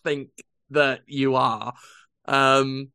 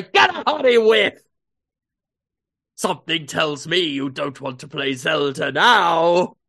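mock taunt; 4 dB louder than usual. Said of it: "shove that into his face and say".

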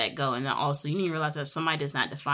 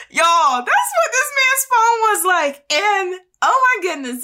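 very high, loud astonished exclaim; can't believe it, tell the viewers; exclaiming in disbelief; 11 dB louder than usual. Real, not acted. Telling viewers about his phone, very high and loud.

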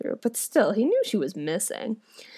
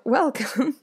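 room cries welcome; 5 semitones higher than usual. Acted. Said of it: "all that was in the room cried out".

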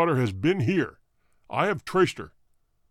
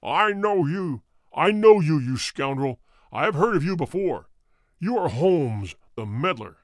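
menacing insult. A narrator's reading. Roylott taunts Holmes as a meddler, menacing. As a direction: spit the insults at him.

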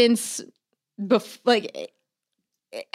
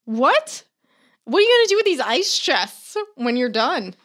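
retold disbelief; 6 semitones higher than usual. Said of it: "I'm like".

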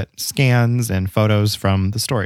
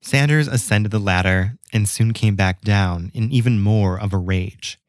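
measured storyteller's read with pauses; scripted tale, deliberately paced; story narration. A narrator's reading. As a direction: narrate an old local legend, phrase by phrase. Reads the legend aloud.

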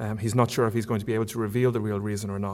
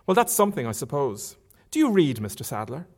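Marion; 2 semitones higher than usual. Acted. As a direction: lift the pitch for an eager young lady. Reader voices Marion.

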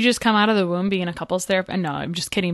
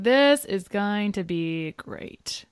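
slow, dreamy naive optimism; drawn out like a starry-eyed bride; glassy-eyed newlywed; 4 dB quieter, much slower than usual. Retold or imitated. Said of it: "like, all glassy-eyed".

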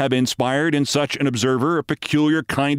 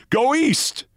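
put-on high little child's cry; piping child voice; 12 semitones higher than usual. A narrator's reading. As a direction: pipe it like a small girl running. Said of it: "cried a little child in a piping voice".

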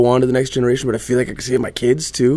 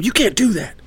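retold yell; 9 semitones higher than usual. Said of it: "I say to her".

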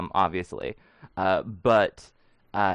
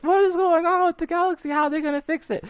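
mock panicked pundit; faster than usual. Mock sports headline quote.

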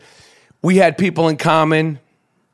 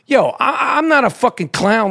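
mock indignant; 6 semitones higher than usual. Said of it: "I'm like".

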